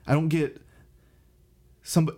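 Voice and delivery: coughing and choking mid-sentence. Real, not acted. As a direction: choke on the word and cough. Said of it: "I started choking".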